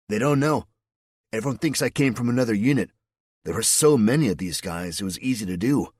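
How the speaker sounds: easygoing soldier explaining his trick; lightly voiced undercover soldier. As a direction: explain the cover matter-of-factly. Edmonds voiced as figure.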